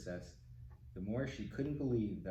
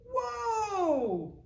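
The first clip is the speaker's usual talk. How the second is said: very high, loud amazed whoa; much higher, louder whoa; astonished whoa; 7 dB louder than usual. Real, not acted. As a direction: let it fly up in amazement. Reaction to tower bursting.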